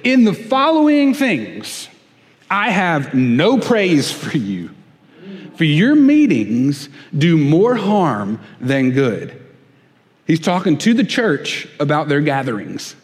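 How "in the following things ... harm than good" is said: weighty rebuke. Acted. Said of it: "the weight and the angst and the strength".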